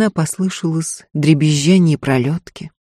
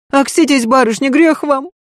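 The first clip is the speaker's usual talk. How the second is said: frightened babble; 9 semitones higher than usual. Acted. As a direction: stammer it out in fright. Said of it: "пролепетала Марфа".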